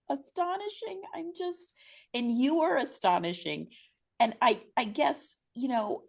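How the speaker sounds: high, bright-eyed rush of eager questions; excited gushing. Real, not acted. Host gushing over grandmother's story.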